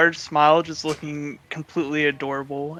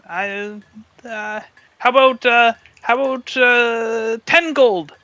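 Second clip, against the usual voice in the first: much higher and louder, a sweet guessing offer; hopeful Faye; 8 semitones higher, 7 dB louder, slower than usual. Acted. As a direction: chirp the price like a naive girl. Faye names her price.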